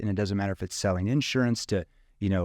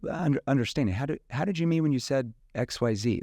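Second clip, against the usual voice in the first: puzzled, higher questioning voice; mock confused prospect question; 4 semitones higher than usual. Shown as a demonstration. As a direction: sound genuinely lost so they explain. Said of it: "That's a confused tone".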